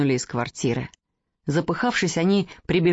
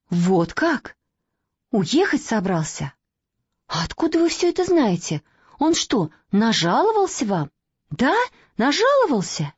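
bitter questioning; 4 semitones higher than usual. Acted. Girl hurt, bitter.

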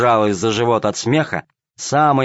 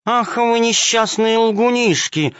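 angry exclamation; 11 semitones higher, slower than usual. A narrator's reading. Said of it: "воскликнула кошка-хромоножка, рассердившись".

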